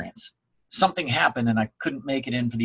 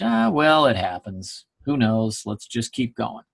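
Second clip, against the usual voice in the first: resigned shrug; 4 semitones lower, slower than usual. Pretend. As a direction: let it drop away like a verbal shrug. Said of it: "you kinda had the latter approach".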